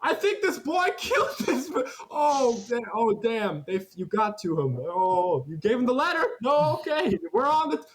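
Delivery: panic-babbling to the party; a high, flustered townsman covering himself; high frantic optometrist. Acted. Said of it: "He's like".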